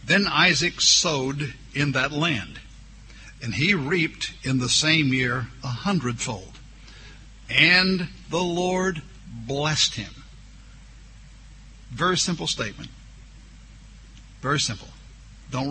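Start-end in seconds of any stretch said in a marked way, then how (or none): 0.1-10.2 slow, solemn reading of the verse; drawn-out pulpit reading; scripture reading. Acted. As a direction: let the last line rise and slow. Reads scripture aloud.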